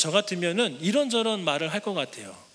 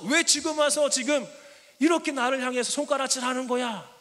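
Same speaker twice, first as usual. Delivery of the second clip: hurt reproach; 5 semitones higher than usual. Pretend. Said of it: "서운한 마음으로".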